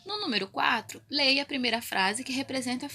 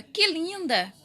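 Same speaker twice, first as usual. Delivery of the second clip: exclamation; 4 semitones higher, 4 dB louder, slower than usual. Shown as a demonstration. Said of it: "frase exclamativa".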